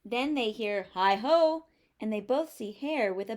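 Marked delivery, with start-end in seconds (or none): 0.9-1.7 cheerful high call, louder. Acted. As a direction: hail them from the doorway. Hare calling at the door.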